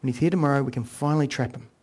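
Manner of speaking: hushed, like a king plotting a trap. Retold or imitated. King Saul quietly plotting to trap David, hushed and scheming. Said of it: "You can almost hear Saul plotting".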